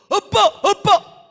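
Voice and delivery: high, loud, slow cry for daddy; startled child crying out for his father; startled child calling. Retold or imitated. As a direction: call out like a child waking in fright. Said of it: "막 놀래가지고".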